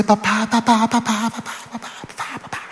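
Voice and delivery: voz aguda de niña insistente; niña pequeña llamando. Retold or imitated. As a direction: imita a la hija que lo despierta. Niña despierta al padre. (voz de niña insistente)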